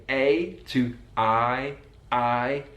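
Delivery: vowel sliding from A to I, slowly. Shown as a demonstration. Teacher spelling out the Brummie vowel shift slowly. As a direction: stretch the A sound into an I. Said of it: "that diphthong changes from".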